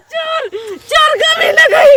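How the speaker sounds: very high-pitched cry of alarm; panicked scream. Acted. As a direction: shriek while struggling to get free. Woman struggles as she is grabbed.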